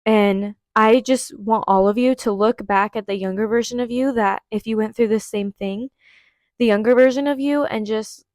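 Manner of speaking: ordinary talk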